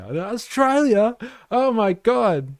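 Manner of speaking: very high, slow, loud mock thrill; hammed-up star-struck realisation; imitated amazed bouncer. Bouncer realising he is Australian, gushing mock excitement. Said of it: "bouncers at clubs and stuff would be like".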